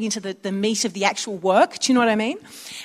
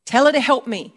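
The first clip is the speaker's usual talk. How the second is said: irritated complaint; slower than usual. Retold or imitated. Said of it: "You can sense the irritation".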